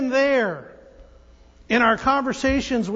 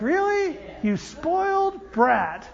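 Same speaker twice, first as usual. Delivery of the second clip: higher "really", then slow scolding; mock disbelief; 3 semitones higher, slower than usual. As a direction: act out an incredulous scolding. Mock reaction to spoiled brat.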